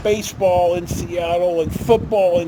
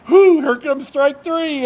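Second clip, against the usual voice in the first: high, loud relieved whew; slow, loud sigh of relief; a big relieved exhale; 8 semitones higher, 5 dB louder, slower than usual. Retold or imitated. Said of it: "Mark and I looked at each other and went".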